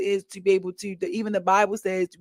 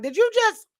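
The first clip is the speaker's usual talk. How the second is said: stunned; 13 semitones higher than usual. Retold or imitated. Stunned at being let go.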